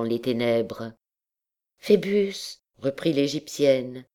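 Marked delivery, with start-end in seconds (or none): 1.8-2.6 lightly voiced girl, higher pitch; young woman's voice. A narrator's reading. Gypsy girl calling to her captain, lightly girlish. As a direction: call his name in a higher girl's voice.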